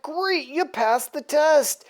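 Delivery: lightly acted proud congratulation; pleased villain. Apocalypse congratulating Death on his kill, mildly pleased. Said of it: "Apocalypse is real happy with Death".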